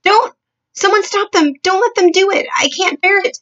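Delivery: high, loud panicked pleading; sleep talking. Acted. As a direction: beg from inside a nightmare. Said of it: "a slightly blurred sleep talker's voice".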